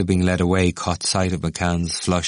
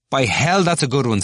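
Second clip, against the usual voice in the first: higher, louder enthusiasm; gypsy student tickled by a quip; gleeful approval; 8 semitones higher, 4 dB louder than usual. Acted. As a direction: relish the phrase.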